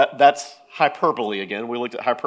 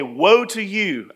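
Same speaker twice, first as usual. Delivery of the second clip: playful argument rebuke; 5 semitones higher, 4 dB louder, slower than usual. Pretend. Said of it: "If you get in an argument".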